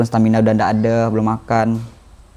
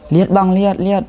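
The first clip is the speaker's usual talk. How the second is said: villager's eager shout; villager calling; 8 semitones higher than usual. Retold or imitated. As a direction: point him out excitedly. Villager spots him, calls out.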